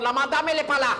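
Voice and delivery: high, loud put-on Portuguese maid accent. Answering the doorbell to dodge callers, in a put-on Portuguese accent. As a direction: answer the door as a Portuguese cleaning lady, in a Portuguese accent. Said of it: "je vais prendre l'accent portugais".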